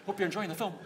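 Sean Connery impression. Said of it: "It's me, Sean Connery".

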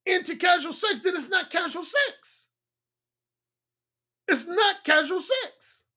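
high, strained throat voice; talking from the throat. Real, not acted. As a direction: voice rising, pushed from the throat. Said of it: "I'm talking from the throat".

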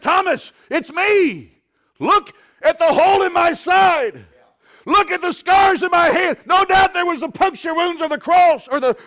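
high, loud, shouted preaching; preaching at full force. Acted. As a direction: climb into a shouting sermon peak. Preacher reaches full-force climax.

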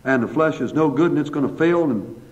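earnest, even-pitched pastoral prayer; public prayer. Real, not acted. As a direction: address God in steady phrases with pauses between petitions. Let's bow for a word of prayer.

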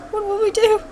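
mock-helpless high squeak, kept small; put-on voice. Player frets in play as Alice, high put-on voice. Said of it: "when did you change your voice so drastically".

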